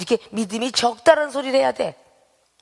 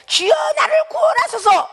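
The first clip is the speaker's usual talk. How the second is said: desperate cry. Acted. Pastor voicing Peter sinking, desperate shout. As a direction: cry out like a drowning man. 기도를 안 했기 때문에.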